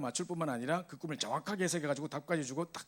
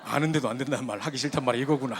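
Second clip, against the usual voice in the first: loud realization; 8 dB louder than usual. Retold or imitated. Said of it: "그 말이 생각나더라고요".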